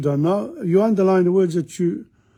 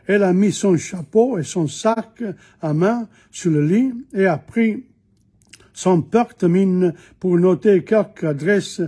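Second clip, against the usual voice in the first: reading aloud in French. Shown as a demonstration. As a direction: read each phrase clearly for the students. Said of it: "I'm gonna read it to you first".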